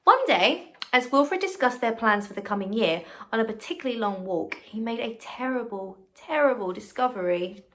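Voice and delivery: put-on bright, lively read-aloud to children; story reading. A narrator's reading. Teacher reading a picture book to her class, bright and lively.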